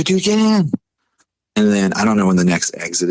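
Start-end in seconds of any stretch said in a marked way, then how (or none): 0.0-0.7 high-pitched frantic command; retold urgent order. Driver orders his passenger back in, retold urgent order. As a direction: hurry him in a high mock panic.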